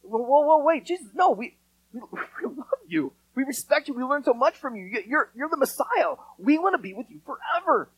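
hammed-up whiny plea from the disciples; whining disciples. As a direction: disciples begging Jesus not to leave, in a mock whine. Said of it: "like, whining and crying".

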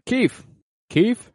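high-pitched mock roll call; calling a name. Judge looks for the defendant in court, calling out. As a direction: call out the name, then repeat it as a question.

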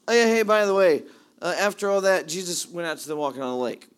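casual offhand aside, like it's nothing; nonchalant. Retold or imitated. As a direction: toss it off as a by-the-way. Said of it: "very nonchalant kind of says".

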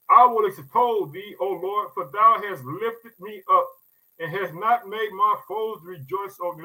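solemn scripture reading. Acted. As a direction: read the verse like holy text. Reads the psalm aloud.

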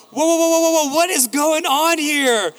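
high, loud run of whoas slowing into disbelief; startled protest. Acted. Parents re-enact reacting to their crying son, loudly bewildered. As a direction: act out alarmed bafflement.

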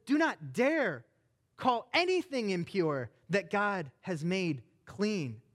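angry God. Acted. God rebuking Peter on the roof, angry and stern. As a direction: scold him for doubting your work. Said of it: "gets mad".

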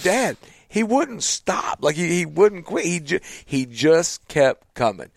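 put-on high pleading child; a touch of a little boy; kid's voice. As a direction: plead like a young son. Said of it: "but he said".

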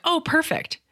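put-on high, sing-song "Oh, perfect" to a small child; bright-voiced parent cooing at a toddler's drawing; mom praising toddler. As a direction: gush it high like praising a four-year-old. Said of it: "I'm like".

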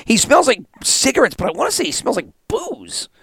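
puzzled, high-voiced report; retold suspicion. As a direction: act out reluctantly voicing a suspicion. Retells worried report to Dad.

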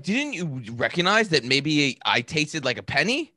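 half-shouted through laughter, imitating herself; mock yell at him while laughing; retold scream. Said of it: "I started screaming".

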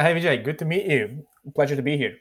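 normal talking voice

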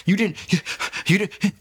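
high panicked insistence, voice climbing; freaking out. Retold or imitated. Insisting to his ex she saw it, in high panic. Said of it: "I'm freaking out".

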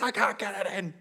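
imitating a distraught kid; mock tearful frustration; strained, put-on child's complaint; nearly crying child. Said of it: "He almost starts to cry".

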